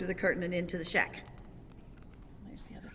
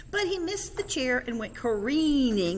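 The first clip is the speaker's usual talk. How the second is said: higher, lively read-aloud; story narration; 7 semitones higher, 6 dB louder than usual. A narrator's reading. Reader tells children of kitten missing the chair, excited narration. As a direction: build excitement for the tumble.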